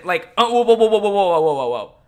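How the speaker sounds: sarcastic whoa. Retold or imitated. Sarcastic mock reaction.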